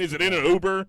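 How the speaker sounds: high, loud worried question; hammed-up anxious outburst; mock panic. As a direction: fret aloud at the top of your range. Acting out lost-wallet panic.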